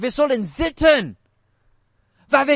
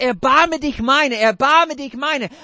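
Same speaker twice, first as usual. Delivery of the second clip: pleading for mercy; 3 dB louder than usual. Retold or imitated. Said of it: "Und dann er sagt".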